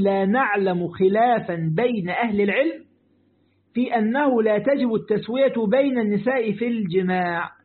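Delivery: slow, deliberate classical Arabic recital; measured, drawn-out scholarly reading; formal quotation reading. Acted. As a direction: read the scholar's text out word by word. Reads a scholar's quotation aloud.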